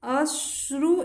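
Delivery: drawn-out syllable by syllable; slowly sounding out a word for students; slow spelling out. Shown as a demonstration. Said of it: "इसे आपको".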